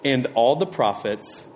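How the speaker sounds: slow, measured reading of the verse; slow scripture reading. Shown as a demonstration. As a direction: read it slowly and reverently. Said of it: "And then it says".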